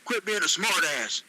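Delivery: mildly irritated telling-off, lifting in pitch; annoyed. Acted. Ron tells Tony to stop copying him, annoyed. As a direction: cut him short with mild irritation. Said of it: "Ron said in an annoyed tone".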